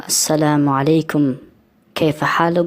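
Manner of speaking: slow careful classroom repetition; teacher repeating slowly. Shown as a demonstration. Tajik teacher models the Arabic greeting for students, slow and careful. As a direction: spell out the greeting slowly for learners. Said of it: "اینجا یک انسان سلام داد".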